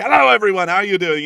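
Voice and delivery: loud, bright showman hello to the crowd; mock rally greeting. Candidate greets an Alabama rally crowd, loud and hammy. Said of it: "I'm gonna be like".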